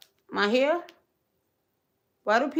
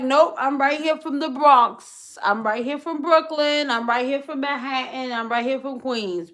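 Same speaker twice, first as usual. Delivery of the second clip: louder, punchy Nope, fading through the boroughs; loud hometown pride that winds down; proud declaration; 4 semitones higher, 4 dB louder than usual. Retold or imitated. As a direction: proudly claim every borough. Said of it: "proudly listing boroughs".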